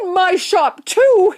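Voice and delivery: high, loud, thrilled shopkeeper; excited shout. A narrator's reading. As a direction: shout it with proud amazement. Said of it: "he shouted".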